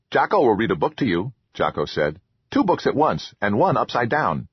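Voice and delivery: grateful troll, lightly voiced; eager little troll voice. Troll Jocko speaks.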